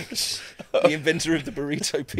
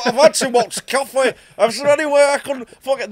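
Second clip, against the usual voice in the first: mock plea; 9 semitones higher, 5 dB louder than usual. Mock polite request to staff.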